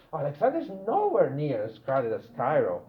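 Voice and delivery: "nowhere near" lifted and punched; strong stress on "nowhere near"; emphatic NOWHERE NEAR. Shown as a demonstration. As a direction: put the weight of the sentence on "nowhere near". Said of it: "much stronger than the not".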